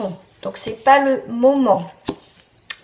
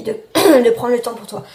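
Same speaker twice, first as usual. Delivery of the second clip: voice cracking; 6 dB louder, much faster than usual. Real, not acted. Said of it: "j'ai la voix qui part".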